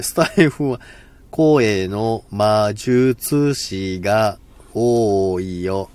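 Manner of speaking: 声の魔術師 spelled out syllable by syllable, very slowly; careful slow take. Shown as a demonstration. Streamer retrying the tongue twister, very slow and careful. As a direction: drag 魔術師が多 out slowly so each sound lands. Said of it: "はい、言えました".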